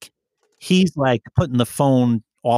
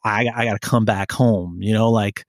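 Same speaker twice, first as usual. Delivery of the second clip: retold anger. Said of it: "You know I was angry".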